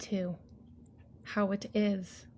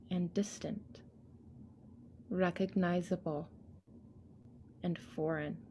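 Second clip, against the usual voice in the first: whisper; 6 dB quieter than usual. Acted. Poem line dropped to whisper.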